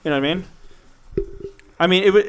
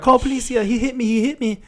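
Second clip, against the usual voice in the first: high-pitched mock cries for help; yelling out the window; 8 semitones higher than usual. Passenger yelling to people outside the car, high mock yell. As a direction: imitate a passenger appealing to passers-by. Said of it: "she's yelling out the window".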